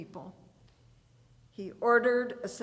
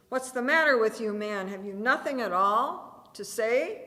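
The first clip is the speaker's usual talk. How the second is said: shouting; 3 semitones higher, 7 dB louder than usual. A narrator's reading. Governor yelling at the silent prisoner, loud and quick. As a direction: rush it at him in exasperation. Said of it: "Pilate was shouting at Jesus".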